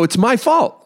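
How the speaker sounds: high, insistent mock shout; retold yelling. Driver taking blame from wife, retold yelling. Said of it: "I start yelling".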